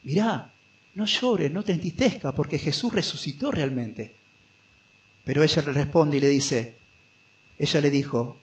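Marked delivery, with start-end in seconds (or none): 0.0-4.2 gentle reflection. Acted. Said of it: "como llamándole a la reflexión".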